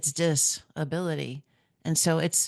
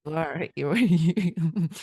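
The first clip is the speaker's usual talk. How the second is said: normal talking voice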